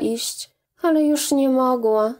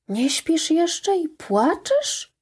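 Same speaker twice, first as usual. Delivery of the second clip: slow, tender, higher mother's question; sweet voice; 6 semitones higher, slower than usual. A narrator's reading. Mother finding her daughter in tears, sweetly slow. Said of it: "rzekła do niej słodkim głosem".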